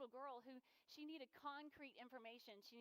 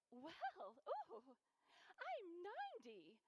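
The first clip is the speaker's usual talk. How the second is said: put-on proud old lady; 5 semitones higher, much slower than usual. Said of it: "And Frida was like".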